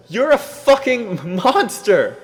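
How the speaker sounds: very high, loud, slow scream; raging scream. Acted. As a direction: drag out every word in rage. Punching while screaming.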